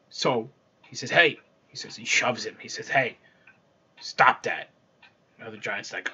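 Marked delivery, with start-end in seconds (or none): 1.1-1.4 loud, higher-pitched call; acted annoyed giant demanding attention; sudden sharp call to the culprit; indignant giant. Giant struck awake, accuses his companion. 2.9-4.7 annoyed giant. Acted. Annoyed giant shoves his companion.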